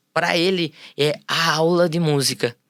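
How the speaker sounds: "a" held out and set apart, as the one and only; stress on A. Retold or imitated. Music teacher on what his class means to a pupil, stressed A. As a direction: lean on the article "a" before "aula".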